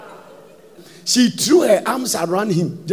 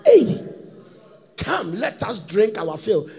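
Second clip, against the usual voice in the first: seductress calling. Retold or imitated. Preacher voices seductress calling out.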